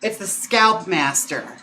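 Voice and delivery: slipping into a Wisconsin accent; a natural Wisconsin lilt on the Scalp Master. Real, not acted. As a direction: Wisconsin vowels without trying. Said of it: "I said that with such a Wisconsin accent".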